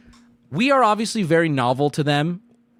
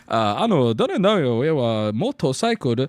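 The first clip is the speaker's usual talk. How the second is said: 1 halting announcement; 5 semitones lower, slower than usual. Retold or imitated. Server addressing the Japanese table.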